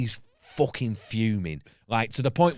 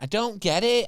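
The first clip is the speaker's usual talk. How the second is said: puzzled judge; 11 semitones higher than usual. Retold or imitated. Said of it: "just went".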